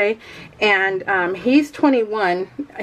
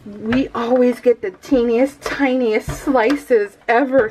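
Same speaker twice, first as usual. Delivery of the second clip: put-on little girl; slower than usual. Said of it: "She's all".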